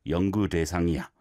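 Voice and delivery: quick, even, low-pitched model phrase; modelled rhythm. Shown as a demonstration. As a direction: say 넌, then run 연구 대상이야 together. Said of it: "the rhythm and the pattern of the phrase".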